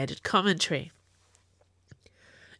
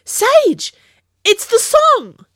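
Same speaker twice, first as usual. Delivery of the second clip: high, loud excited yell across the cafe; sudden yell; 11 dB louder, much slower than usual. Acted. Hebe calls to Sage across the cafe table, sudden high yell. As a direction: shout it out, thrilled to hear the song. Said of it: "Hebe let out a sudden yell".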